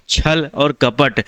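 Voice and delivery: छल और कपट said very slowly, each word apart; slow, spelled-out words. Shown as a demonstration. Teacher to students, showing two words apart, very slow. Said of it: "कपट का उच्चारण एकदम अलग करते हैं".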